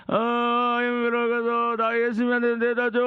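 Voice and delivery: drawn-out, strained monotone plea; bedridden man pleading. Acted. Paralyzed man asking friends to carry him, pleading groan. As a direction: groan out the request as a sufferer.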